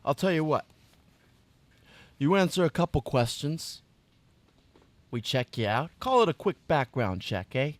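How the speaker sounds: put-on Brooklyn accent. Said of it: "a gangster Brooklyn accent now".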